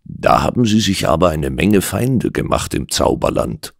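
mildly mocking remark. Doctor teases the bewitched client, lightly mocking. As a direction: tease with understated scorn. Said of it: "warf ich spöttisch ein".

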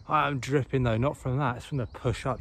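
breathless after the climb; panting between words; out of breath. Real, not acted. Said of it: "I'm out of breath".

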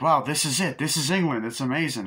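high, lilting tourist enthusiasm; put-on wide-eyed wonder; mock amazement. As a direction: gush like an awed traveler, hammed-up.

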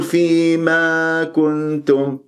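slow recited فيما كنتم with overstretched ما; wrong madd. Shown as a demonstration. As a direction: demonstrate the faulty lengthening in فيما كنتم. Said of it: "لا تقول".

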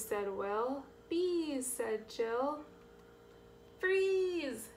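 sing-song picture-book read; reading to children. A narrator's reading. Reader showing children the hike, lilting story read. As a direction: lift each quote, settle on the name tag.

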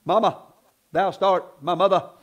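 a touch of King James grandeur; lightly hammed-up formal plea; mock old-fashioned. Imitating a churchgoer talking to mama in King James English. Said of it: "do all that".

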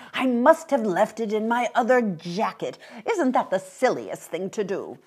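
a hint of self-reproaching old fellow; lightly voiced flustered old man. Old man admits the missing wallet, mildly flustered.

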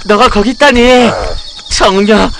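high, loud mock-panicked cries; acted panic. Shown as a demonstration. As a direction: demonstrate someone flustered, wailing it out. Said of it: "이렇게 당황하는".

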